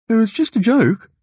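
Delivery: high, whiny defensive protest; defensive mutter. A narrator's reading. Brother facing disgusted parents, defensive mutter. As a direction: plead it high, without shouting. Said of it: "I mutter defensively".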